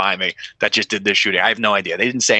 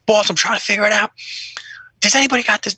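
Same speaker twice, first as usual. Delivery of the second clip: high, fast stressed answer; flustered reply; 10 semitones higher, faster than usual. Retold or imitated. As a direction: rush it out, overwhelmed. Cop answering sergeant, stressed.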